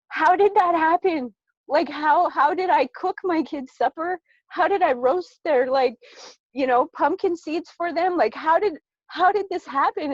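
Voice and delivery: high, loud, stunned questions; amazed disbelief. Retold or imitated. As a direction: replay your own wide-eyed disbelief. Retelling her own astonished self-talk.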